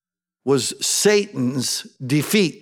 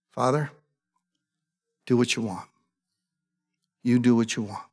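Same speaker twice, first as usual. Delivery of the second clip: whisper-close prayer of surrender, low and soft; hushed prayer; 6 semitones lower, 6 dB quieter, faster than usual. Acted. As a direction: lower and much softer, surrendering. Jesus prays in surrender.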